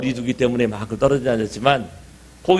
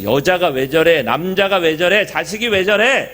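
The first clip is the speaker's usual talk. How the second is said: grumbling complaint. Pretend. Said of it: "왜 저래가 아니라".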